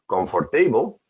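COMFORTABLE as com-for-TAY-bul; mistaken pronunciation. Shown as a demonstration. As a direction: stress "tay" and pronounce the "or" in "comfortable". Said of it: "if you think that the correct pronunciation is".

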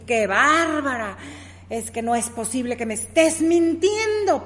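exclamación lenta y fuerte, indignada; enojo fingido. Retold or imitated. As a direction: reclamo imitando a una amiga enojada. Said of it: "ya me enojé yo". (reproche enojado imitado, más fuerte)

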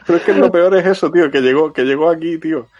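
worked up and insistent; excited. Real, not acted. Insists the game came west. (insistente y exaltado)

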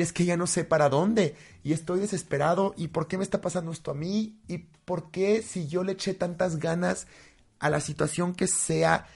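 from anguished pleading to a furious demand for why; desperate outburst. Retold or imitated. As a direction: act out despair climbing into a shout. Voicing someone in despair.

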